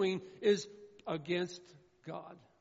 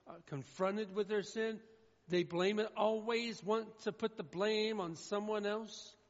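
ordinary delivery

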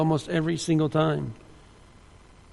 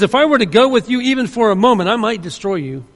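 angry God; 2 semitones higher than usual. Acted. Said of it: "he is angry".

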